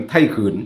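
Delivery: ไทยขืน with a long, close ue vowel; local vowel. Shown as a demonstration. Vlogger showing viewers a people's name, ไทยขืน with local vowel. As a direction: say ไทยขืน with ue replacing the oe of เขิน. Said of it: "ออกเสียงเป็นไทยขืน".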